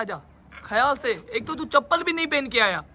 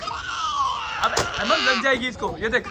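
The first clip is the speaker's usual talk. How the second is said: urgent call over crying; much slower than usual. Real, not acted. Father calls out to his crying son to stop. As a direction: call out fast to stop him.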